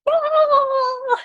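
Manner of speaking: a sudden high mock roar of rage; cartoon anger burst; Anger from Inside Out. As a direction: blow up like a cartoon temper. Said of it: "the anger guy from Inside Out just being like".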